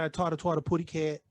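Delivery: baby-talk cartoon mispronunciation, lightly imitated; "putty cat" for pussycat, lightly babyish; Tweety Bird. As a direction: say "taught a twat" as a cartoon bird's baby talk. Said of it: "Tweety Bird, he said".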